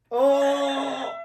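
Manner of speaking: a sudden high yelp of surprise; surprised oh. Real, not acted. Reacts to a rude joke.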